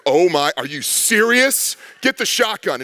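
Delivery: drawn-out, mock-exasperated dad; alarmed dad. Dad woken by his kid over a monster, alarmed. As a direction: play up a dad's disbelief, then give the order. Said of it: "and dad goes".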